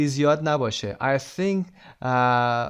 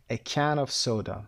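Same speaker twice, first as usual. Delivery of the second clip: slow careful model; much slower than usual. Shown as a demonstration. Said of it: "اگر بخوایم واحد رو دقیق تر بگیم".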